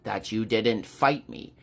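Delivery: lightly voiced villain, disappointed; measured, dropping low at the end; Pestilence. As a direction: let down an unworthy opponent, lightly acted. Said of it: "Pestilence is just like".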